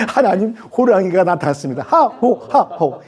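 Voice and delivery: laughing through the prayer; giggling as the panicked prayer is repeated; retold while laughing. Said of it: "그때 기도를 이렇게 하셨대요". (웃으면서 기도를 흉내 냄)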